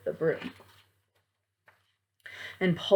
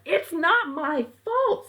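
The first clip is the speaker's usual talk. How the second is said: high, defensive mom; a touch of snapping at dad; bickering mom to dad, mildly annoyed; 9 semitones higher than usual. Acted. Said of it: "They heard their parents getting mad".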